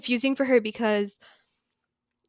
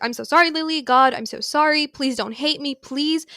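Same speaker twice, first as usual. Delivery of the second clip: pleading apology; 3 semitones higher than usual. Retold or imitated.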